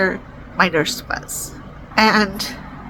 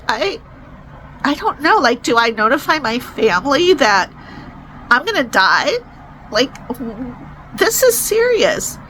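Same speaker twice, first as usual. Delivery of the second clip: retold crying; 3 semitones higher than usual. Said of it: "And I started crying".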